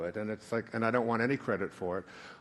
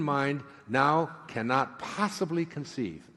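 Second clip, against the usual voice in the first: solemn reading; 3 semitones higher than usual. Shown as a demonstration. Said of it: "Let me read it to you slow".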